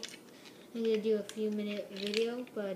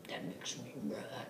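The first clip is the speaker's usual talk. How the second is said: much lower, softer, fake-grumpy voice; mock grumpy; 10 semitones lower, 8 dB quieter than usual. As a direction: grumble it in a put-on deep voice. Ran out of bricks.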